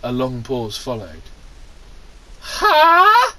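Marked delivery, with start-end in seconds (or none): 2.4-3.3 high startled huh. Acted. Luke startled reply.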